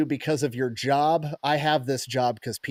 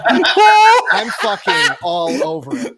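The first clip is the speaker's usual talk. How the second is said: laughing; 11 dB louder, much slower than usual. Real, not acted. Laughing while boasting.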